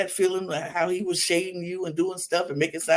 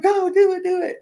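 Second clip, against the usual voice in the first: high, excited mimicked urging; hammed-up high squeal; mock egging on; 12 semitones higher, 4 dB louder than usual. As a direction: imitate someone eagerly cheering it on. Mimics her egging him on.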